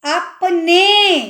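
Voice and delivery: अपने drawn out, very slowly; slow sounding out. Shown as a demonstration. Teacher sounding out अपने. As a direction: say अपने syllable by syllable. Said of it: "क्या word बन रहा है".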